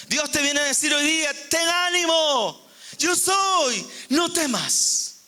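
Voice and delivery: high, drawn-out proclamation; preaching. Real, not acted. Preacher delivering God's word to the congregation, ringing proclamation.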